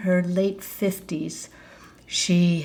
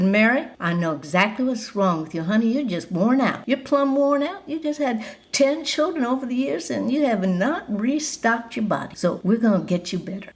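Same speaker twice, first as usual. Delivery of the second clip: a hint of a Southern Georgia belle comforting a friend; southern Georgia accent; 4 semitones higher than usual. General's wife reassuring the worn-out mom, light Georgia accent. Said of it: "in her southern accent from Georgia".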